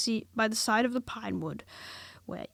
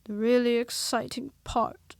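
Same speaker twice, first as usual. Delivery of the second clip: melancholy; 3 semitones higher, 5 dB louder than usual. Acted. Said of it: "in his most melancholy voice".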